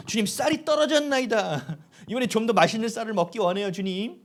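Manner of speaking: mock-solemn plea to the Lord; demonstrated prayer. Shown as a demonstration. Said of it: "쌀이 떨어지면 기도하시라고".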